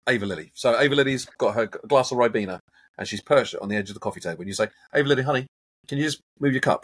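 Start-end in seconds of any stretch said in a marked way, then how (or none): 4.9-6.8 lightly acted parent, pitched higher; parent coaxing. Coach voicing a parent asking a little niece, gently coaxing. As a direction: coax a small child sweetly.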